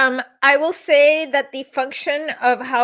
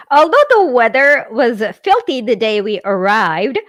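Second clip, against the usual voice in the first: measured book narration voice; memoir read-aloud. A narrator's reading.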